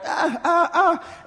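high, straining little 'ah' cries; whiny mock-toddler grunts; toddler's reaching whine. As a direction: imitate a baby reaching for something.

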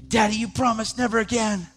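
put-on a small girl begging her dad; pleading little daughter. Daughter begging her father not to go out again, childlike plea.

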